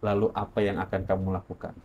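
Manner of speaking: lightly voiced, ominous inner voice; hushed, measured questioning; mysterious voice. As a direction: quote the warning softly and deliberately. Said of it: "intonasinya sama".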